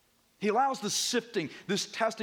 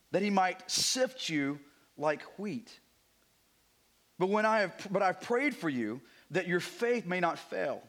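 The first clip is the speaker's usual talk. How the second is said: slow, solemn reading of the passage; scripture reading. Acted. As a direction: read the verses slowly, weighing each word. Reads the scripture passage aloud.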